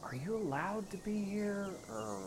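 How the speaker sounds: very soft, secretive whisper; hushed, confidential aside. Acted. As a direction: whisper a quick private question to the queen. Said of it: "like, whisper to Cyrena real quick".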